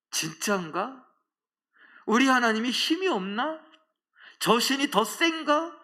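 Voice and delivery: rising, high-pitched doubtful questions; wondering doubt. Acted. Exiles wondering whether their God is weak, doubtful. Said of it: "이런 생각을 할 것 같은데".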